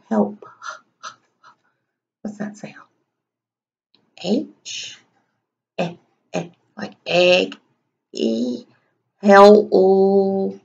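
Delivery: Help broken into its sounds; sounding out. Shown as a demonstration. Teacher sounding out Help with the class. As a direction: stretch Help out letter by letter. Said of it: "sound that one out".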